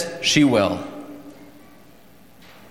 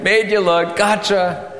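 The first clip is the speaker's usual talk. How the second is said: higher-pitched playful taunt; gloating prankster; 6 semitones higher than usual. Acted. Boy teasing the neighbours he fooled, gloating. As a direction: tease them like a pleased prankster. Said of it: "he laughs and laughs".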